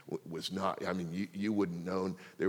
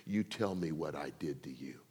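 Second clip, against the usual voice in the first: whispered plea; 5 semitones lower, 7 dB quieter than usual. Retold or imitated. Father's humble apology.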